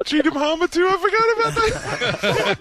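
very high, squealing with laughter; delighted high-pitched laughing outburst; helpless laughter. Real, not acted. Host cracks up at remembered nickname.

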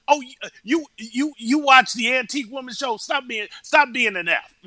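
lightly voiced teasing quip; joking quote. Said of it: "And he says it jokingly".

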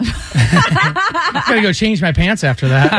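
slow, laughing joke. Real, not acted. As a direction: chuckle it out slowly. Joking after scary roar.

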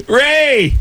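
high, stretched-out greeting; calling out. Retold or imitated. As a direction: hail him by name on voicemail. Greeting on retold voicemail.

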